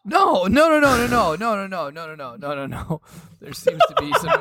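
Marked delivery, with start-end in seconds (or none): 0.0-2.7 frantic denial. Real, not acted. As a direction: deny it in a rush.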